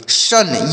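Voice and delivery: शन said with a "sh" at the start; palatal sh sound. Shown as a demonstration. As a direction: start शन on the palatal sh, not a plain s. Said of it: "ये वाला स पढ़ेंगे".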